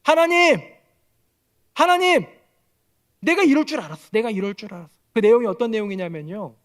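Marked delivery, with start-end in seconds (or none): 0.0-2.3 loud, high cry of protest to God; angry outcry. Acted. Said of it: "요나가 매우 싫어하면서 성을 냅니다". 3.2-4.1 내가 hit loud and high, then an indignant falling line; bitter I-knew-it cry; angry complaint. Acted. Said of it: "매우 싫어하면서 성을 냅니다".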